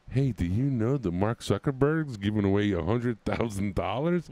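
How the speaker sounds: mock scammer pitch, rising at the end; imitating the Facebook scammers' slick pitch; scam message voice. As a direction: sell the fake offer like a spammer. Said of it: "Facebook messages a day".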